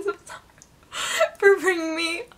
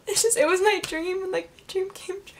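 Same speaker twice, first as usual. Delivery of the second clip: holding back tears; 5 semitones higher, 4 dB quieter than usual. Real, not acted. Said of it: "I'm trying not to cry".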